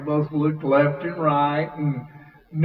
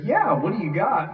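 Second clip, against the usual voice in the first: lightly acted friendly reply, pitched up; 4 semitones higher, faster than usual. Musician retelling his new friend's reply, friendly. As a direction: toss it back like an easygoing pal. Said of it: "He's real friendly".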